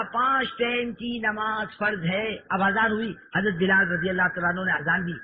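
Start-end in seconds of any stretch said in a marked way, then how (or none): 0.0-2.4 slow, drawn-out proclamation; public announcement. Acted. Preacher voicing the proclamation of five daily prayers, drawn-out announcement. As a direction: proclaim it slowly, stretching the words. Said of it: "اعلان ہوا".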